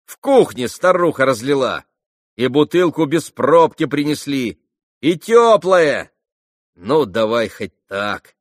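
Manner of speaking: high, loud jeering voice; sneering young man, loud and high; mocking Rakitin. A narrator's reading. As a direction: tease her loudly, almost yelling.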